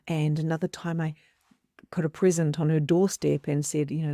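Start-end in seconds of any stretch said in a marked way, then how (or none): none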